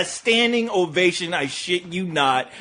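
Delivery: ordinary talk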